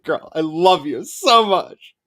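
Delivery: slow, laughing, delighted gush. Real, not acted. Gushing about Sophia's video, slow laughing adoration. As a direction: swoon over her through laughter.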